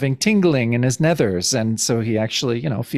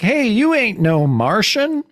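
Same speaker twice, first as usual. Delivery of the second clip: higher, slow hammed-up hick drawl with a laugh; hick farmer voice; 11 semitones higher than usual. Farmer greeting Cap, slow high hammed-up yokel.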